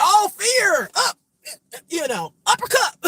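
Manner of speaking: high, loud bursts; mock fight shouts. Reader acting out fighters knocking down fear, high punchy shouts. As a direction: call it out like landing a punch.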